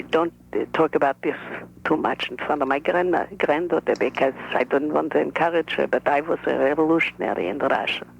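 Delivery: a lightly voiced shy old Russian grandmother; other grandmother. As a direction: speak as the careful, reserved grandmother. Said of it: "This is the other grandmother speaking".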